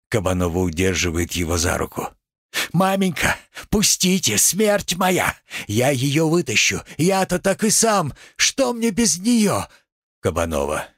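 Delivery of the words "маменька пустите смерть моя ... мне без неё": pleading son, much higher; desperate plea. Acted. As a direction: beg to be let go. Kabanov pleading.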